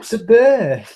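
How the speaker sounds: high-pitched "burr", no r, long vowel; Oldham pronunciation. Retold or imitated. Co-host insists to confused friend, high Oldham pronunciation. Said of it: "she used to pronounce bears as a burr".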